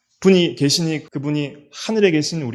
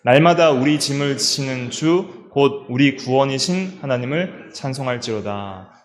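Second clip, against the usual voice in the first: scripture reading; 2 semitones lower than usual. Shown as a demonstration. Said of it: "같이 한번 읽어볼까요".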